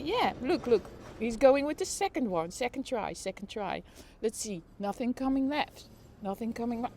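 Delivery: a lighter run of live sports calling; play-by-play commentary. Acted. Streamer narrates the avocado delivery, lively commentary. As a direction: keep calling the delivery like a match. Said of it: "Play by play of a food truck".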